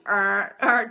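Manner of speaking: imitated red-light warning buzz; mock warning alarm noise; warning buzzer. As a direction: buzz out a short alarm, twice. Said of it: "the red lights are flashing".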